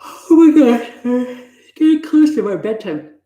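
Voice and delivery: sudden high exclaim; startled squeal at the hour; surprised, high and loud. Real, not acted. Startled about the time.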